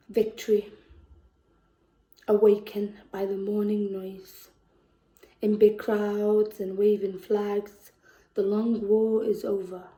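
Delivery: spoken-word poet performing a war poem; poem recital. Acted. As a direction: read it like a lament for the war-torn.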